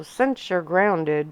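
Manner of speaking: slow, sighing tease. Acted. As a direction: drag the words out on a sigh. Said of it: "Drax sighed".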